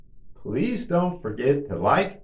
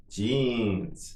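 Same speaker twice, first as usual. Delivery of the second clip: drawn-out word for learners; slow model; 4 dB quieter than usual. Shown as a demonstration. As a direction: say it slowly and evenly for repetition. Teacher models word for repetition.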